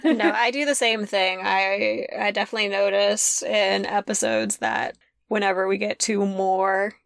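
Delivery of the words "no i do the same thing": nervous laugh. Real, not acted. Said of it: "nervous giggles".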